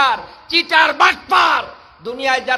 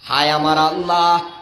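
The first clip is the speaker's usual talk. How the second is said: low, mournful half-sung plea; tearful calling; 11 semitones lower than usual. Acted. Preacher voicing companions weeping to Allah, tearful calling. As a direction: sink into an imitated weeping cry to God. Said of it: "কেঁদে কেঁদে ডাক দিয়ে বলতো".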